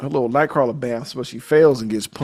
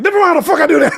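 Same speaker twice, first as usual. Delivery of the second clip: higher, louder laughing retort; mock angry snap; 9 dB louder, much faster than usual. Imitating Julie snapping at Scott, a loud laughing retort. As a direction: fire it back half-laughing. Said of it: "She's like".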